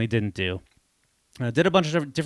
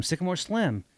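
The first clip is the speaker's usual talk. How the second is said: higher and softer, tasting the name "Sycamore Slim"; savoring the name; 7 semitones higher, 3 dB quieter than usual. Retold or imitated. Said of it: "that's good".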